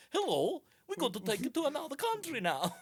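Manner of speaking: mock slaver. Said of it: "slave trafficked by them".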